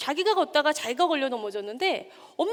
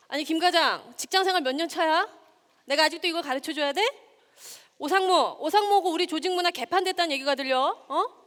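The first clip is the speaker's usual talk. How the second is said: a moderately loud, higher berating manager; scolding boss; 5 semitones higher, 3 dB louder than usual. Acted. Lecturer playing a boss scolding manager Kim, moderately loud. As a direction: chew out the employee like a fed-up boss. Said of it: "뭐 이런 말들 있잖아요".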